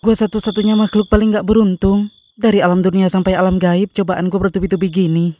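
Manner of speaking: self-pitying lament. Acted. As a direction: sigh it out like a tragic heroine. Ditolak pocong, meratapi nasib. (meratap lirih dengan sedih)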